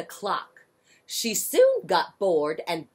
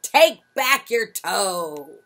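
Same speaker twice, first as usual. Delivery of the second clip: firm reply; 6 dB louder, slower than usual. Acted. Mother Hubbard answers.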